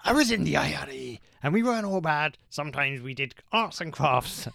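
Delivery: loud gruff Irish impression. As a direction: bark it out in a gruff brogue. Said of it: "very gruff voice".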